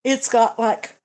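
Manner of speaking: words stretched by a yawn. Real, not acted. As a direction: talk through a yawn. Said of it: "I just yawned".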